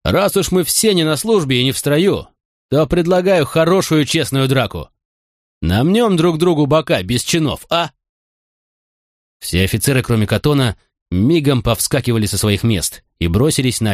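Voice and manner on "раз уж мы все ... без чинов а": eager and raised; rally them to a brawl; gleeful challenge. A narrator's reading. Cheerful call to a brawl.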